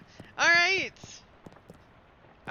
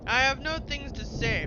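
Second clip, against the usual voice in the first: louder, firm denial; indignant tree; 3 semitones higher, 7 dB louder than usual. Acted. The accused tree protests to the woodcutter, louder. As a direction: push the words out in protest. Tree denies knowing of murder.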